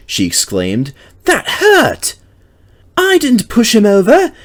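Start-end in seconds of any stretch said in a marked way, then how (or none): 1.2-4.3 high, louder alarmed engine voice; cried in alarm. A narrator's reading. Mavis crying out after the lorry crash, alarmed. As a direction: blurt it out in a fright. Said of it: "she cried in alarm".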